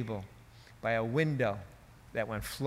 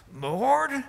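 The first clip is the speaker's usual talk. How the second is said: booming high cry to God; E V Hill; 12 semitones higher, 4 dB louder than usual. Retold or imitated. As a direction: call out loudly to heaven, pitched way up. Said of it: "and he was booming".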